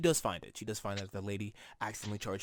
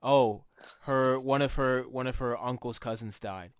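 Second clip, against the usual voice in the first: mock grandmother breaking gossip, louder; hammed-up grandma delivering bad news, louder at the start; imitating grandmother; 8 dB louder, slower than usual. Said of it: "I'm like".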